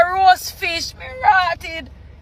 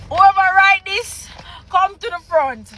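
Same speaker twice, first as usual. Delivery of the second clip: slightly raised mock call-out; mock summons; 3 semitones higher than usual. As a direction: call the culprit forward, held back.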